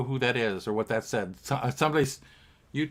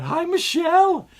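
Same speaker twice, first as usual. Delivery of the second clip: high chirpy greeting; 8 dB louder than usual. Retold or imitated. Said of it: "And I got".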